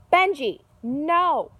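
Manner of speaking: sudden high yell of alarm; shout. Retold or imitated. Shouting at her friend Benji to stop.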